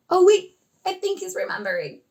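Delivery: play-acted teacher anticipation; playful suspense. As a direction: act out sudden hope for the puppet. Teacher acts suspense with puppet.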